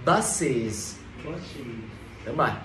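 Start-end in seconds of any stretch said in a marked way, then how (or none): 0.0-1.0 "Buses" lower, falling, with a sounded z ending; clear final z. Shown as a demonstration. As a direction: let the z of "Buses" ring at the end. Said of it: "Đọc rõ âm giờ phía cuối". (đọc "Buses" rõ âm z cuối)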